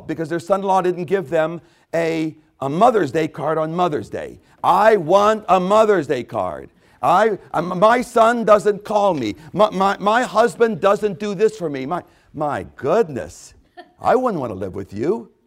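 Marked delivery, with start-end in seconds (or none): 4.6-11.9 whiny complaint. Retold or imitated. Parent's complaint voiced in sermon.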